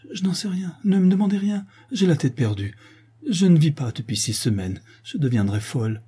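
put-on a girl at her wits' end; panicked, bewildered outburst; distraught cry. A narrator's reading. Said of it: "s'écrie Toinette".

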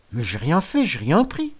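rising high whine of protest; protesting innocence. Acted. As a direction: plead you did nothing. (gamin qui proteste)

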